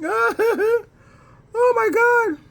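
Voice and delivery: high laughing exclamation. Real, not acted. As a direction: still giggling as you say it. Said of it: "That's funny".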